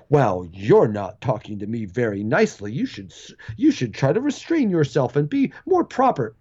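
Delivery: prissy scolding with swooping pitch; mock prim complaint. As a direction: imitate someone primly asking for better manners. Mocks a prissy media worker complaining.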